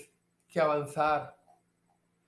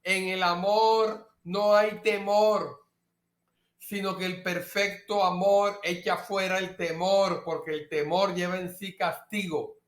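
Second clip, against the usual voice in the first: lento, cada vez más suave hasta apagarse; repítelo despacio para que se grabe; repetición lenta y pausada. Shown as a demonstration. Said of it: "Vea, repítalo". (repetición lenta que se va apagando)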